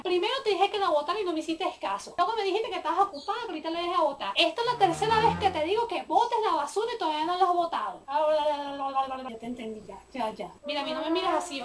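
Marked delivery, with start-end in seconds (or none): 0.0-8.0 higher, fast nagging mom; mother losing patience with daughter; exasperated scolding. Acted. Mother scolding, third warning. 8.1-10.5 slow, fading eye-roll reply; bored teen shrugging off mom; dismissive sigh. Acted. Daughter brushing mother off.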